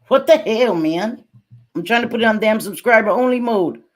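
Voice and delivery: loud, exasperated what the hell; annoyed loud complaint at the stream tools; frustrated outburst. Real, not acted. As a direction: blurt it out, fed up with the settings. Frustrated with troll and settings.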